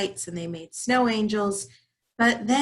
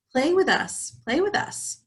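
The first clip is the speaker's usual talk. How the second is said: teasing singsong; 8 semitones higher than usual. Acted. Mice teasing from tree.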